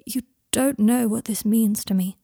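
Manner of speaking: a breathy rush of gratitude; overwhelmed gratitude. Acted. Draco, stunned by Harry's kindness, overwhelmed and grateful. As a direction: say it like he's just been handed a fortune. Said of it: "sounding as if Harry had just given him a million galleons".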